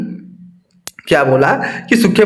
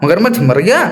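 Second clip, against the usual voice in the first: surprised. Acted. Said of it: "आश्चर्य होकर पूछा".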